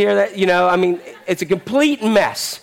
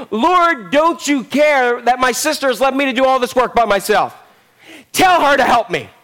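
exasperated sister's complaint, raised in pitch at first; snapping; 3 semitones higher than usual. Acted. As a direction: demand backup, at the end of your patience. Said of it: "She completely snaps and says".

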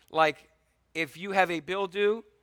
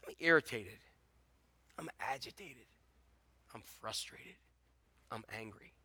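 soft, much quieter naming of feelings; hushed confession; 4 semitones lower, 11 dB quieter than usual. Acted. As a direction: murmur each word like a private admission. Voicing listeners' feelings, hushed.

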